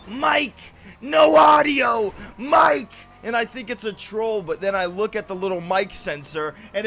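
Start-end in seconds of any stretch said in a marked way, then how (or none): 0.0-2.9 raised-pitch imitation of frantic viewers; mildly yelled impression of viewers; mock screaming chat. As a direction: mimic the chat calling out. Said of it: "you guys screaming in the chat".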